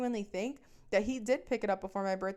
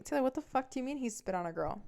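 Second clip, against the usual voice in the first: imagined viewer; 5 semitones higher, faster than usual. Pretend. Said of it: "you're probably wondering".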